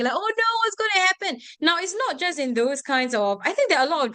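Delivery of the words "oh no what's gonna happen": hammed-up panic, high and quick; super dramatic. Shown as a demonstration. Teacher imitating badly acted drama characters freaking out, super dramatic. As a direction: overact it like a bad drama. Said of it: "when they're super dramatic".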